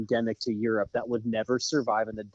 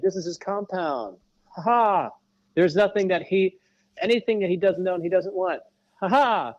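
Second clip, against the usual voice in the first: high-pitched awed pilot impression with big ha-has; mock-grand, high and loud-laughing; boastful retelling; 8 semitones higher, 5 dB louder than usual. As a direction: exclaim it like an impressed tour guide. Acting out the awed helicopter pilot.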